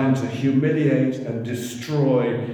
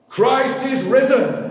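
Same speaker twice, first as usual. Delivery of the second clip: call to congregation; 10 semitones higher, 6 dB louder, slower than usual. Real, not acted. Calling to the congregation.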